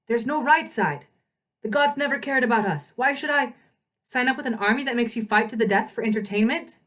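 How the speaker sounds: bitter, sneering scorn. Acted. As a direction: spit out his contempt for the gods. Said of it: "Ethan sneered".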